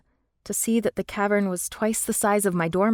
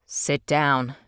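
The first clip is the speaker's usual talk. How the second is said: instructing; 4 semitones lower than usual. A narrator's reading. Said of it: "Liam instructed".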